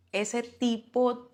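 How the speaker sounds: retold outrage. Mother phoning her husband about the abuser, retold outrage. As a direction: spit out the name slowly, retelling it. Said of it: "lo traté de lo peor".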